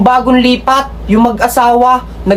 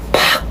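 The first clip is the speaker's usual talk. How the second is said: slap sound; 5 dB quieter than usual. Retold or imitated. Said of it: "Ganun yung talagang sinampal".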